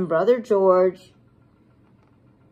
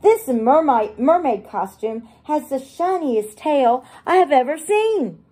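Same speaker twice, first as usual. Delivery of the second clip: delighted; 3 semitones higher than usual. Acted. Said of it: "she squeals in delight".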